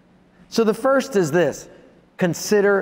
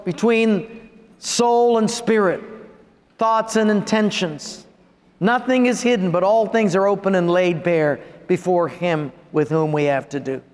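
solemn scripture read. Acted. Reads scripture aloud.

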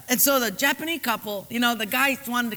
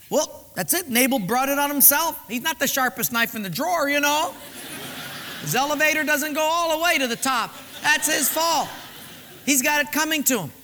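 dismissive thought; 4 semitones higher than usual. Acted. Abigail's possible dismissive thought.

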